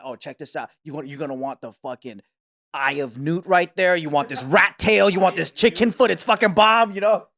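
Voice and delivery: mock witch seller. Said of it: "is it from a cauldron?".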